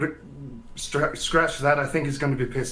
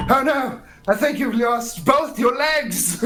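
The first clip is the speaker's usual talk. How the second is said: loud, high mock alarm; feigned horror; 8 semitones higher, 3 dB louder than usual. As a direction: cry out in exaggerated dismay, drawing it out. Prankster feigns horror at player's injuries.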